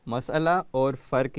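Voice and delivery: مسئلہ as "mas-ala", فرق as "farq"; careful "mas-ala aur farq"; correct pronunciations. Shown as a demonstration. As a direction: model both words: three-syllable مسئلہ, one-syllable فرق. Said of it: "یہ اس کے صحیح تلفظ ہیں".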